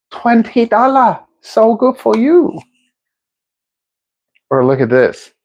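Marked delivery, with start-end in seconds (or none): 0.1-2.6 high mock Asian accent. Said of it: "Did I do an Asian accent?".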